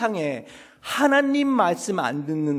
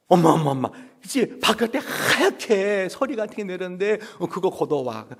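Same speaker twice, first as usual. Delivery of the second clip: loud, eager calls to mom; excited child; 4 semitones higher, 4 dB louder than usual. Acted. A child calling mom about the white frost outside. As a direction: tug at mom's sleeve with the news.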